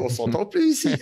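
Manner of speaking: high-pitched mock exasperation; exasperated, pitch jumping up; retold protest. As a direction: complain over the din, re-enacted. Retold protest over the noise.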